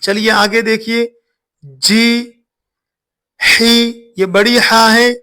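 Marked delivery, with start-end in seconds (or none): 3.4-4.1 "ही" said with a breathy throat h; teacher demonstrating the Arabic throat ha in "ही". Shown as a demonstration. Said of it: "इसको गले से निकाल कर पढ़ेंगे".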